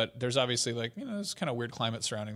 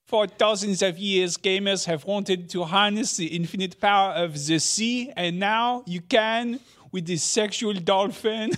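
put-on higher, louder, slow grand French-accented presenter; mock Ubisoft announcer; 6 semitones higher, 6 dB louder, slower than usual. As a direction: ham up a pompous press-event pitch. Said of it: "doing impressions of, like, Ubisoft announcing stuff".

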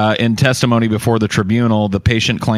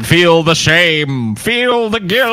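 slow, higher, drawn-out mock chant; mock shaming therapist; 7 semitones higher, much slower than usual. A host repeating the therapist's words, hammed-up and slow. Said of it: "mocking the therapist's line".

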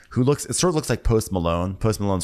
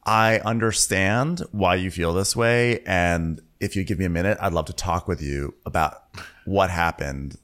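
understanding. Acted. Acts a therapist-like calm reply.

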